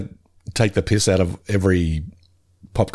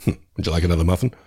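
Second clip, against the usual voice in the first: bad Ned voice; 3 semitones lower, faster than usual. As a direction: lightly do Ned's polite offer. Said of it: "I did his bad Ned voice".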